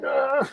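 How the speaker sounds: high, soft mock groan; retold panicked groan. Own panicked reaction, retold.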